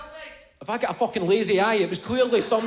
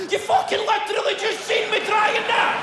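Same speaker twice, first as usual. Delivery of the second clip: high exasperated outburst; 13 semitones higher than usual. Retold or imitated. Frustrated man snapping at his helpful family, high and strained. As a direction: voice shooting up high in exasperated fury.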